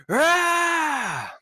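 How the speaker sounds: high, loud war yell; battle cry. Acted. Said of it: "raises his sword and gives this".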